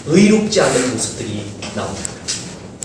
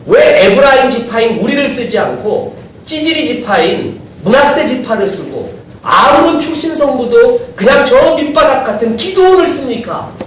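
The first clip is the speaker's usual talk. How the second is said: indignant protest; 6 semitones higher than usual. Retold or imitated. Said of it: "하나님께 항의한 겁니다".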